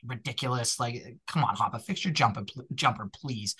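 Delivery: thick Boston accent slipping out. Real, not acted. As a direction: let the Boston vowels show. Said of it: "my Boston accent came out there".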